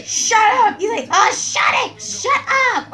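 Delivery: loud imitation of someone yelling shut up; mock telling-off. Quoting Briggs at the noisy bather, mock yelling. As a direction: bellow it as the annoyed man upstairs. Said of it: "Briggs say".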